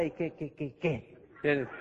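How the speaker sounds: a hint of a soft, low challenging tough guy. Young man acting tough to earn respect, mild mock challenge. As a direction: stare them down, quietly menacing. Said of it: "yo quería verme más malo".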